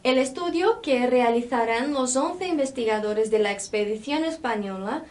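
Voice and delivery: teacher reading aloud, making the accented syllables noticeable; demonstrative Spanish read-aloud. Shown as a demonstration. Teacher reads the text for students to notice accents, demonstrative Spanish read-aloud. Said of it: "Percebam a minha pronúncia quando há esse acento".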